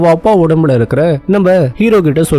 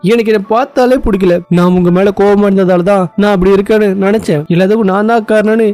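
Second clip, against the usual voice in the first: mild acted outburst, pitch raised; angry outburst; 3 semitones higher than usual. Daughter Casey vents at her father, mildly acted anger. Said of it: "கேசி கோவத்துல கத்துறா".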